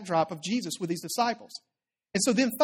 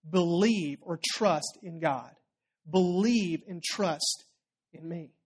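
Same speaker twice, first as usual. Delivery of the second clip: slow tender reassurance; 3 semitones lower, much slower than usual. Acted. Jesus reassures worried disciples.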